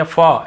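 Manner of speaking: फ as a lone "fa" sound; letter F sound. Shown as a demonstration. Teacher showing how F is pronounced, फ on its own. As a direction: say फ alone, F plus short vowel. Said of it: "ऐसे उच्चारण निकलता है".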